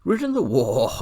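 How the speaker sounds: scornful words breaking into a whinny; horse's neigh. A narrator's reading. Angry talking horse turning horsey, contemptuous neighing. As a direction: start high and loud, then neigh out the last word. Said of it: "a sort of neigh".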